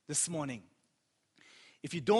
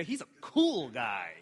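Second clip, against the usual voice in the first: lightly imitated, lower-voiced quote; quoting his girls; 5 semitones lower than usual. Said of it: "The girls will say".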